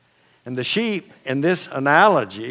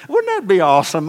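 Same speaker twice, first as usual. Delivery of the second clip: excited joke; 6 semitones higher, 6 dB louder, faster than usual. Real, not acted. Preacher jokes about chewing cud.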